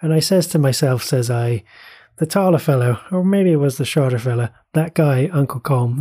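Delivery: lightly put-on, half-hearted Irish accent; a bad mock Irish brogue, quoting the show; terrible Irish accent. Podcast host quoting a Derry Girls scene in a mock Irish accent. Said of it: "that was a terrible accent, terrible Irish accent".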